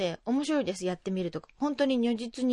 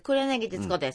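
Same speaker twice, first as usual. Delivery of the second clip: nasal TV personality impression; 黒柳徹子. Shown as a demonstration. Teacher showing radio hosts a nasal, carrying voice, impression. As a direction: introduce yourself in a carrying nasal voice. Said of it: "似てらっしゃいましたね".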